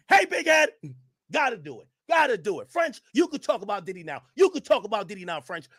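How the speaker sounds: high, loud shouting. Retold or imitated. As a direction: yell it all in caps. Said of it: "In all caps, like he's shouting".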